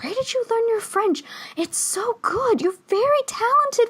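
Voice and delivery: a hint of a gushing Parisian waiter; French waiter voice. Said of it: "the waiter's like".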